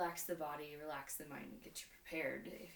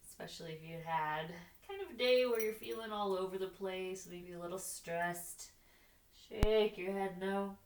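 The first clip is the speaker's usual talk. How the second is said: yoga instruction; 4 dB louder than usual. Real, not acted. Leads yoga practice with breathing cues.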